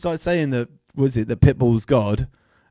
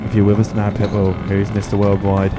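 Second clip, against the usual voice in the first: séance medium; 3 semitones lower than usual. Acted. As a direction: call out to the spirit like a hammed-up medium. Calls on a rapper like a séance.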